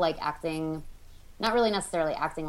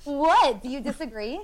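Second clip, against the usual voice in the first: sudden high, loud what; a playfully defensive yelp of what; mock indignant what; 10 semitones higher, 5 dB louder than usual. Real, not acted. Reacting to her friend's teasing sigh, a high mock indignant what.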